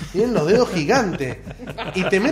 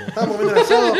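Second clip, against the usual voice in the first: laughing; 6 dB louder, faster than usual. Real, not acted. Laughing while telling his story.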